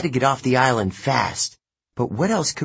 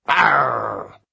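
bellow; 3 dB louder than usual. A narrator's reading. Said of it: "bellowed the big man".

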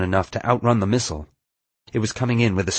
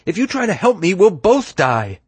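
yelling; 11 semitones higher, 5 dB louder than usual. A narrator's reading. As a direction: warn off the rescuer, loudly. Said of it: "she yelled".

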